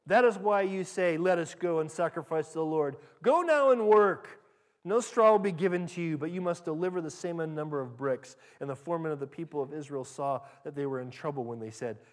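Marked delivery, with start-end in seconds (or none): 0.1-8.4 angry command. Acted. Pharaoh ordering the slaves back to work, loud and angry.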